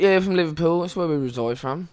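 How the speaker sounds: lightly put-on Liverpool British accent. Best friend claims to be from Liverpool, put-on British accent. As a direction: back up the bluff in mock British. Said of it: "we were just so British".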